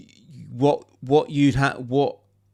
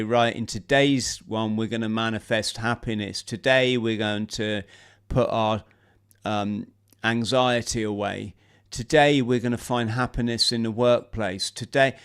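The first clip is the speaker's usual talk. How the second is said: meditation guide. Pretend. Sample intro for a guided YouTube meditation, lightly voiced guide. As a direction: ease listeners gently into a guided session. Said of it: "people love being guided and sort of led".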